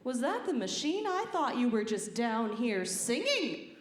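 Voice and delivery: swooping, slow mock questioning; disbelieving boss. Boss questioning worker about the noise, disbelieving. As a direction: imitate a boss asking in disbelief. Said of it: "my boss comes up to me and she's like".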